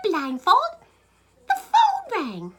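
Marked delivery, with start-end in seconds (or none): 1.5-2.5 high, slow, drawn-out "the phone rang"; dramatic slow reveal. A narrator's reading. Storyteller to listeners, slow dramatic reveal. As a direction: stretch it out for suspense.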